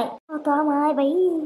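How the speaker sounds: very slow, stretched oh my; scandalised neighbour drawing out oh my; drawn-out exclamation. Acted. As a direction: drag every syllable in mock shock. Scandalised at the friend.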